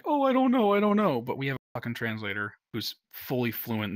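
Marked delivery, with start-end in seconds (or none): 0.0-1.2 high, louder fake cluelessness; feigned ignorance. Boat's engineer playing dumb to the translator, mock cluelessness. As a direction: play dumb, hammed-up. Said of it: "he was pretending like".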